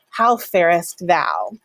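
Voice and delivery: slow, stately "How farest thou"; Elizabethan formal. Shown as a demonstration. Teacher playing an Elizabethan asking after someone. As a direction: ask it with old formality, slowly. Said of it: "an Elizabethan person to ask".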